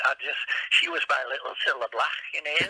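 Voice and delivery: playfully put-on Liverpool accent; Scouse accent. Shown as a demonstration. Impressionist recalling his Liverpudlian first wife, Scouse accent. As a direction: tune into Scouse as you talk. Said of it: "I tune into that. I love the Scouse accent".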